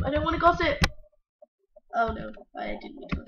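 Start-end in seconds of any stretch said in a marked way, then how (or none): 0.0-0.8 mock shout. Refusing louder.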